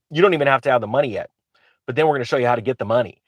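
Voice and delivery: fast excited sales pitch; infomercial pitch. Real, not acted. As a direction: rattle it off like a TV ad. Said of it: "I'm starting to sound like an infomercial".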